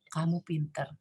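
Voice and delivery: soft, low "Kamu pinter."; calm praise. Shown as a demonstration. Parent praising the child once the glasses reach the table, softly. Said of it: "sampai di atas meja baru kita ngomong".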